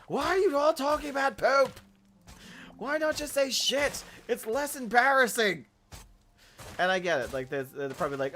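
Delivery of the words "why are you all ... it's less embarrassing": high, loud mock exasperation; high loud incredulous rant; exasperated outburst. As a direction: yell at the TV in disbelief. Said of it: "I'm like".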